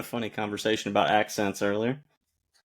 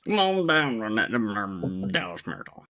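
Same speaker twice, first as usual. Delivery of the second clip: put-on Texas accent; 3 semitones lower than usual. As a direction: imitate a Texan, trailing away low. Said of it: "She's got the Southern, uh, Texas accent".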